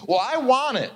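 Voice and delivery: put-on high, demanding little girl. Little girl demanding the boys' scooter, high and insistent. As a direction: insist like a small girl who wants it. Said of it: "some little girl comes around the corner".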